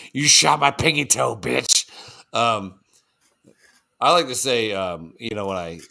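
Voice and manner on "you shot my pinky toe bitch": higher, louder indignant voice; offended deer voice. Retold or imitated. Deer complaining about being shot, mock indignant higher voice. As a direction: play the wounded animal complaining. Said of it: "Dude's like".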